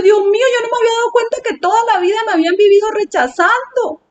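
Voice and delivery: high, hurried tearful lament, acted out; retold crying. Telling God of lifelong rejection, retold crying. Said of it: "Entonces yo estaba llorando".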